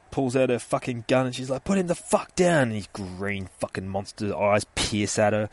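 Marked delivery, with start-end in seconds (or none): 1.6-2.7 raised, loud command; forceful order. Retold or imitated. Detective with gun ordering the monster, forceful shout. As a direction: act out an armed detective's demand.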